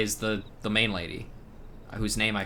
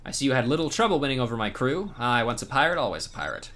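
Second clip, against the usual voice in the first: hammed-up pirate; 4 semitones higher than usual. Streamer reads the pirate's quest to the hero, hammed-up. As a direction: play the swaggering old pirate.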